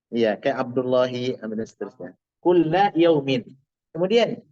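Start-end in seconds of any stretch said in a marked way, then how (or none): 2.4-3.5 Kulla yaumin read slowly, ending "-in"; slow model reading of Kulla yaumin; bacaan contoh. Shown as a demonstration. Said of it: "gimana bacanya?". (Kulla yaumin dibaca pelan dengan harakat lengkap)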